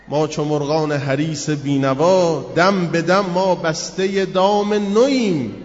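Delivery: slow, measured, swelling verse; poem recitation. Acted. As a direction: chant the lines slowly and gravely.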